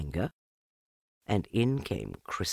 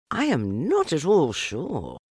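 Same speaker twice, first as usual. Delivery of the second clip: thoughtful; 8 semitones higher than usual. A narrator's reading. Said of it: "in a thoughtful voice".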